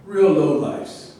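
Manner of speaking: slow, loud, disgusted jab; contemptuous insult. Acted. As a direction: spit out the insult slowly and loudly. Insulting the other men.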